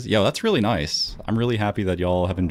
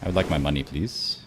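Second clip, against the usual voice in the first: lightly done Deep South accent, trailing off softer; 5 semitones lower, 6 dB quieter than usual. Shown as a demonstration. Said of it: "try out my Deep South accent for you guys".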